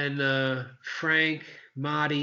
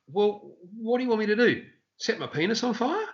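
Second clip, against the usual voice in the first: higher, exasperated mock retort; comedian's retort; 7 semitones higher than usual. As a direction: toss it at the crowd, fed up. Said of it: "he goes".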